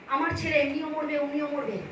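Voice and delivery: suddenly soft, resigned aside; hushed retelling. Retold or imitated. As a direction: drop the voice right down for the parent's words. Same words, dropped to an aside. (হঠাৎ নিচু গলায় বাবা-মায়ের কথার অনুকরণ)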